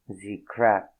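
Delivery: put-on a quick French-accented echo. Narrator mimics her French-accented words. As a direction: narrator echoing The crap in a light French accent as ze crap. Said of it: "Thick French accent".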